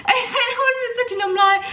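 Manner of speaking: talking through helpless laughter; high, squeaky giggling speech; laughing. Real, not acted. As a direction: barely get the words out for laughing. Breaks up telling a funny story.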